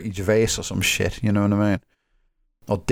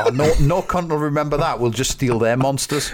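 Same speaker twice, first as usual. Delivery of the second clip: laughing mock scheme; 3 semitones higher than usual. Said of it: "and thought".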